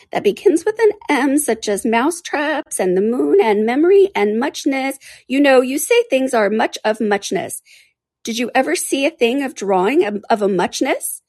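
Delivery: high little creature, drawing words out; high-pitched dozy animal storyteller; rambling dormouse. Acted.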